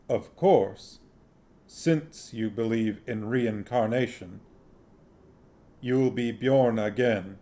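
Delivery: slow, solemn grim reaper; measured, deliberate Death; Death's voice. Acted. Death's voice in the story.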